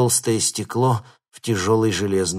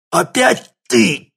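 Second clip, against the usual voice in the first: hoarse croak; 9 dB louder, slower than usual. A narrator's reading. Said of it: "прохрипел Ларионов".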